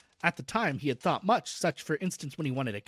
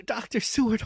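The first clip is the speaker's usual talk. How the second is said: frantic pleading; 3 semitones higher, 4 dB louder than usual. Acted. Patient begging Doctor Seward, loud and frantic. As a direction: call his name as a desperate plea. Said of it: "poured forth a torrent of entreaty".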